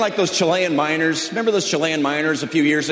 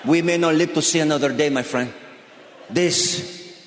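imitated trapped miner; 4 dB quieter than usual. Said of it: "Do you think they're down that mine going".

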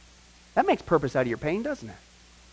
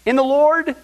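loud, high, slow Rejoice in the Lord always; proclaiming; 8 semitones higher, 8 dB louder, much slower than usual. Acted. Preacher proclaiming Paul's command, loud and slow. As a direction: ring it out like a herald. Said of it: "And so Paul says".

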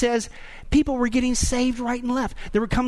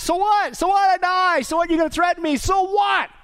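defiant; 8 semitones higher than usual. Pretend. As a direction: toss the threat aside, fearless. Defiant believer facing death threats.

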